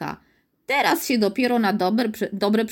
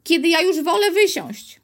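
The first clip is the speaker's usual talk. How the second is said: put-on scared little girl; 8 semitones higher, 4 dB louder than usual. Scared girl asks to leave.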